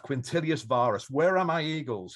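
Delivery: mild mock emperor shout; retold shout. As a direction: call out to the missing general. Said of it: "wake up and shout".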